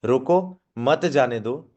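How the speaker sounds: slow "रोको", gap, "मत जाने दो"; deliberate break right after "रोको"; pause after रोको. Shown as a demonstration. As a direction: hold मत back to join "जाने दो". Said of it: "हल्का सा गैप की वजह से".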